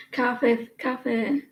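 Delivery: "Cafe" said as KAH-feh; regional coffee pronunciation. Retold or imitated. Streamer echoing a viewer's way of saying coffee, regional pronunciation. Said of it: "How do you say coffee?".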